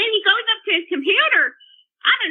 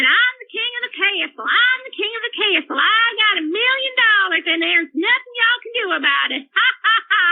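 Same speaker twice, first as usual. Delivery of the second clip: higher, sing-song mock boasting with a spoken ha-ha-ha; retold gloating; 4 semitones higher than usual. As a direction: mimic a son's gloating chant, pitched up. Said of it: "dancing around the house. I mean, like a crazy person".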